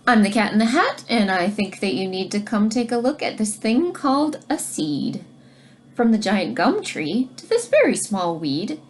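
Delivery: put-on reading to children. Teacher reads rhyming book aloud.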